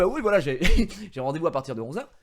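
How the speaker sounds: lightly voiced battle tone, insisting on the appointment; war voice. Asserting his appointment to the Tesla salesman, mock firm war voice. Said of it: "ma voix de guerre".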